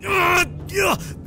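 sudden high pained scream; shout. A narrator's reading. Wounded man screaming in sudden pain. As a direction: scream as the skin tears away. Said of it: "urlò".

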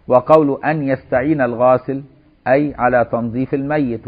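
measured classical Arabic recitation of a legal text; formal text reading. Acted. Teacher reads the washing sequence to students, formal reading. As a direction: read it out in careful formal phrases.

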